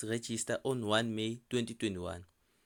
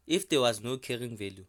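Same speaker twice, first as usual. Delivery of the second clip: If punched louder at the start; stress on If; 5 dB louder than usual. Real, not acted. Teacher flags a hypothetical case to students, stress on If. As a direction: lean hard on the word If. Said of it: "and I say if".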